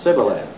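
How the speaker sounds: Sibboleth said with a plain s, dropped low; the forbidden Sibboleth, low and soft; wrong s sound, said low; wrong pronunciation. Shown as a demonstration. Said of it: "Don't say".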